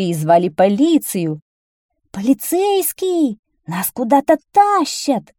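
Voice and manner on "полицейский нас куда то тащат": high-pitched, drawn-out plaintive shout; crying out. A narrator's reading. Whiners calling a policeman as they are dragged off, crying out. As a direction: cry out for help in a raised voice. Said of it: "кричали нытики".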